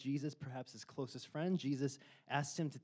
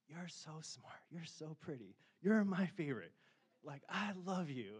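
softer, gentle praise; tender compliments; 3 semitones higher, 4 dB quieter than usual. Retold or imitated. Telling his wife, soft and tender. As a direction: coo it softly to her. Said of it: "I tell my wife all the time".

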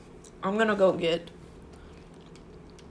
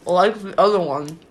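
slower and louder for clarity; louder repeat; 8 dB louder than usual. Real, not acted.

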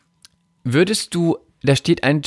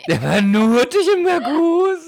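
high laughing echo; 14 semitones higher than usual. Pretend. Joking echo.

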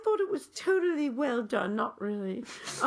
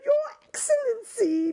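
formal greeting; 8 semitones higher, 6 dB louder than usual. Retold or imitated. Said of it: "smartly bowed my head and said".

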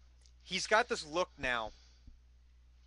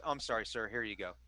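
soft, lower servant voice; meek apologetic servant; 6 semitones lower, 9 dB quieter, faster than usual. Acted. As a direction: mumble the apology humbly.

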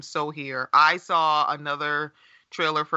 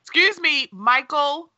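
high, mock-affronted call-out; playful high-pitched scolding; mock indignant; 7 semitones higher than usual. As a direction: pretend to be offended, pitched well up. Scolding co-host for not catching up.

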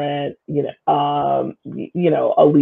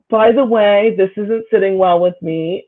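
lightly imitated YouTuber, starting higher; a hint of video-host delivery, easing down; 5 semitones higher than usual. Retelling a complaint to the school, light YouTuber voice. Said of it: "in my best YouTuber voice".

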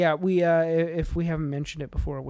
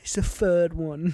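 put-on London accent; slower than usual. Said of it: "free instead of three".

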